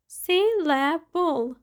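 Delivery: "Syllable" slowly in three separate parts; broken into syllables. Shown as a demonstration. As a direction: say "Syllable" syllable by syllable, drawn out. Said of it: "has three syllables".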